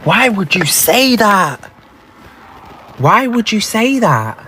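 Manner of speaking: drawn-out, wailing plea; distressed protest. Real, not acted. Driver pleading with the voice in her car, dismayed. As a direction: stretch it out in dismay.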